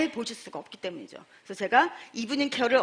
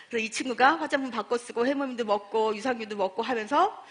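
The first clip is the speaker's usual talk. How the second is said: ordinary talk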